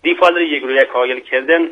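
proverb repeated in Mashhadi dialect; Mashhadi accent. Shown as a demonstration. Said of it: "مطلب دیگه ای با لهجهٔ شیرین".

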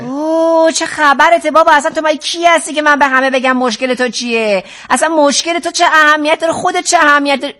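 fed-up, indignant questioning; exasperated. Acted. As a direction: put the pushy client in his place, exasperated. Counselor loses patience with client.

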